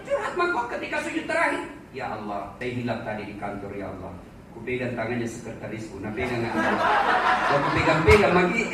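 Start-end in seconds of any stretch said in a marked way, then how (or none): 2.0-8.6 much lower, muttered confession to God; mock prayer. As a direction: play a sheepish sinner confessing in prayer. Comic confession prayer acted out. (doa pengakuan dosa dengan suara jauh lebih rendah dan pelan)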